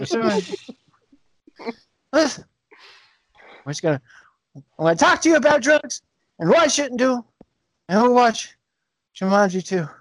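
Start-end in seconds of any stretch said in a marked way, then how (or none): 2.1-9.9 Kevin Hart sleep talking. Retold or imitated. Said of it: "Kevin Hart talking in his sleep".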